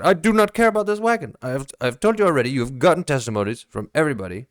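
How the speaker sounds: high, fast protest; frantic denial of the wagon; exasperated Stark. Acted. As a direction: blurt it out in panic. Stark snapping at interrogator.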